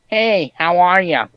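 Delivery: Richie impression. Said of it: "That's a perfect Richie impression".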